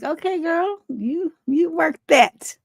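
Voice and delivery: put-on high, drawn-out hype for a girlfriend; playful approval. Host reacting to the woman's bold answer, playful approval. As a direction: cheer her on, stretching the words. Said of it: "I was like".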